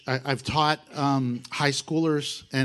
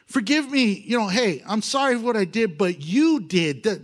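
mock excuse; 5 semitones higher than usual. Shown as a demonstration. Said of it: "you don't do this".

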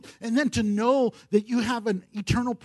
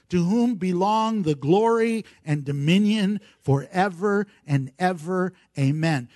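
scripture reading. Acted. Reads scripture aloud.

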